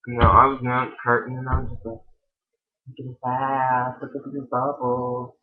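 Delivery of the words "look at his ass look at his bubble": slow, lightly camped-up admiring voice; a hint of a swooning gay stereotype. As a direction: drool a little over the guy. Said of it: "All gay-like".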